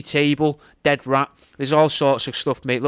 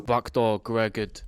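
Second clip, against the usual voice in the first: jingle name; 3 semitones lower, 5 dB quieter, slower than usual. Acted. Inserted jingle name, slow low.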